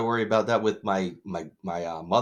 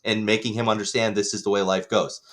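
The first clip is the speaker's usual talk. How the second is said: heated rant; 5 semitones higher, 3 dB louder than usual. Retold or imitated. Ranting at mother retold.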